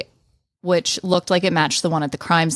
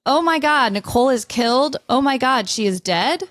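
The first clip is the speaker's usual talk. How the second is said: higher, mock distraught cry of shock; 6 semitones higher than usual. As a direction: play O J panicking over the news. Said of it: "O J says".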